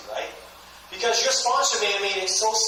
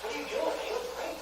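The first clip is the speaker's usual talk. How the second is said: soft, high-pitched wonder; admiring friends; 6 semitones higher, 7 dB quieter than usual. Acted. Friends noticing Trevor's changed skin, admiring. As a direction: voice impressed friends, high and light. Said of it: "his friends start going".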